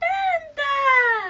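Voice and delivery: mock gushing, high, loud sing-song call.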